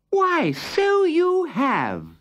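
delighted king. Acted. King, pleasantly surprised.

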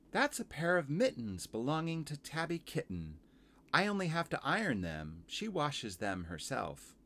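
high laundress voice, easing down; Missus Tiggy Winkle. Acted. Washerwoman telling visitor about mittens, high character voice. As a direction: explain high, slowing at the end.

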